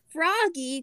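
a lifted storybook call. A narrator's reading. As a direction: call the name out with a pitch that falls away. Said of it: "called his mom".

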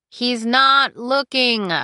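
slow, drawn-out and loud; exasperated reassurance. Acted. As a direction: stretch each word with strained patience. Cinder reassures hiding Aiko, exasperated.

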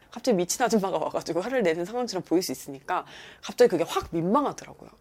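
normal talking voice

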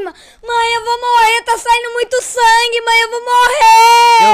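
choramingo desesperado e agudo, crescendo até gritar; pânico de criança. Retold or imitated. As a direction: imitar criança apavorada, esticando o final. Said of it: "eu fiquei mais preocupado". (choro dramático encenado)

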